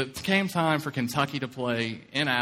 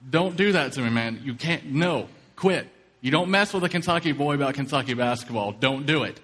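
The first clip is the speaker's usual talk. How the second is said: louder, half-joking scold at a lying friend; mock scolding; 3 dB louder than usual. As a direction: scold him loudly but playfully, as if he's teasing you. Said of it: "So I said".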